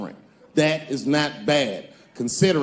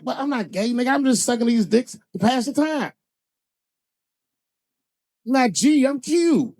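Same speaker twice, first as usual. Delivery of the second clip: higher, lightly mocking inmate voice; mock prison inmate; 7 semitones higher than usual. Comic imitating a prison inmate, higher mock voice. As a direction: play it as a defensive inmate. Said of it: "prison fags who are like".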